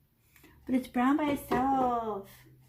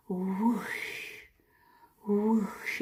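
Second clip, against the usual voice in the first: whoosh sound; 3 semitones lower, 4 dB quieter than usual. Shown as a demonstration.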